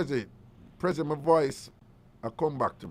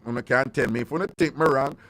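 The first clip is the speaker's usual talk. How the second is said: ordinary delivery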